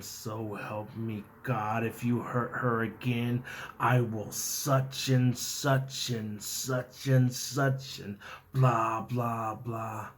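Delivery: slow, drawn-out warning; measured warning, dragging into a dismissive recital; retold threat. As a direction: stretch out a threat that turns to rote filler. Retold threat trailing into filler words.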